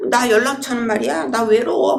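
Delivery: lightly hammed-up lonely come-on; mock flirting. Woman flirting with a man at a gathering, mock flirting.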